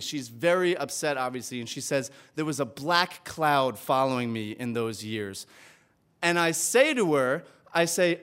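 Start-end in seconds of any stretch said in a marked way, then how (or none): 2.3-5.5 slow, lower, solemn retelling; solemnly. Retold or imitated. Mother recalling hard years over wine, slow and solemn. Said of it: "she says very solemnly".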